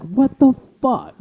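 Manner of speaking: high, drawn-out retold disbelief; baffled mock outcry; stunned disbelief. Retells reaction to suspected cheating.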